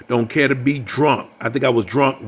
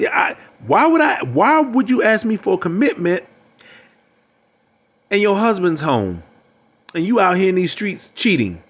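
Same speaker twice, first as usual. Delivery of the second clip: mock indignant man; 6 semitones higher than usual. Quoting a man rebuking a woman.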